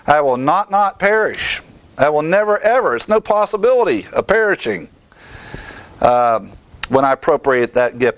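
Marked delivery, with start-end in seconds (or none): 0.1-3.0 "not" and "ever" pushed higher and stronger; emphatic negatives. Shown as a demonstration. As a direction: hammer each negative home. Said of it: "The strongest possible negative".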